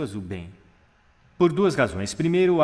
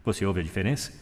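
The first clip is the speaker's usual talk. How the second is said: lower, weighty chest resonance; 4 semitones lower than usual. Shown as a demonstration. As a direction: speak from down in the chest. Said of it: "ir até aqui no peito".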